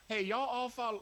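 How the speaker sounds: loud shout-out to chat; calling out. Real, not acted. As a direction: call it out to the viewers.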